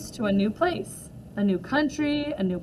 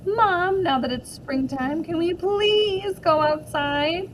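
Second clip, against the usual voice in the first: put-on high, slow begging kid voice; pleading child; 5 semitones higher, slower than usual. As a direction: stretch out the please like a little boy. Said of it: "he'll make this face or be like".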